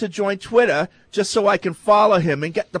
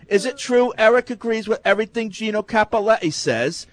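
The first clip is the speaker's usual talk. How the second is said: put-on Boston accent; 2 semitones higher than usual. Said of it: "Your accent put that over the top".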